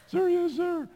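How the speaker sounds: high, loud barked military answer; shouted recruit reply. Retold or imitated. Recruit shouting reply to company commander. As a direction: snap back at the drill commander.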